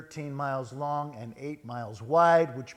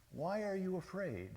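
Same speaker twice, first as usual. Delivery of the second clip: soft, higher-pitched and gentle; gentle question; 6 semitones higher, 8 dB quieter than usual. Acted. Jesus answering his frightened disciples, gently. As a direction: ask softly, answering panic with calm.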